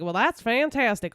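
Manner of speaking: light country accent on fantastic. Shown as a demonstration. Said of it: "say it with the country accent".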